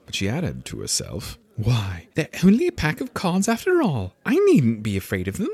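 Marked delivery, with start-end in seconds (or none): 1.6-5.5 self-assured. Acted. Alice reassures herself.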